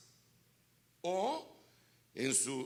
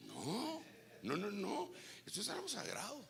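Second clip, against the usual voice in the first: high insistent denial; emphatic no; 7 semitones higher, 5 dB quieter than usual. Real, not acted. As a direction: protest it sharply, much higher. Rechaza la idea, tono alto. (negación enfática, aguda)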